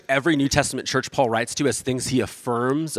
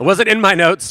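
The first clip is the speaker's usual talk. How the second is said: slow, higher, louder words through laughter; laughing at himself while apologizing; embarrassed laugh spilling into the words; real laughing; 7 semitones higher, 9 dB louder than usual. Real, not acted.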